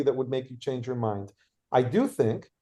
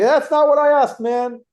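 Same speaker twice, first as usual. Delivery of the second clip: much higher, louder mock shout; imitated yell; 10 semitones higher, 7 dB louder than usual. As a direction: bark it back like an angry heckler. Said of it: "he immediately yells at me".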